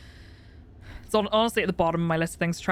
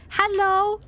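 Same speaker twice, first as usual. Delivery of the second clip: drawn-out hello; 10 semitones higher, 3 dB louder than usual. Real, not acted. Greeting viewer.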